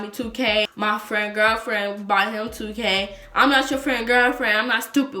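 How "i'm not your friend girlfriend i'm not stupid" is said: angry rant. Retold or imitated. Ranting at the freeloading boyfriend.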